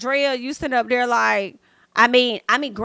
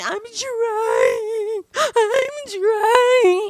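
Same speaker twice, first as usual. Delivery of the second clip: very high, slow, drawn-out acted crying wail; 10 semitones higher than usual. Retelling what a crying Janae said: mock crying as Janae. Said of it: "Janae keep crying, saying".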